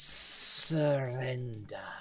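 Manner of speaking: soft, soothing, calm whisper in a low voice. Voicing a snake that speaks to a player's character: low calming whisper. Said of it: "whispers in a like low, calming voice".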